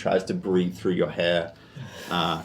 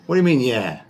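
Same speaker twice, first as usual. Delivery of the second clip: loud, higher, rough dad throwing it back; gruff dad voice; 5 semitones higher, 8 dB louder than usual. Acted. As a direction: fire the question back as the dad. DM voicing the dad.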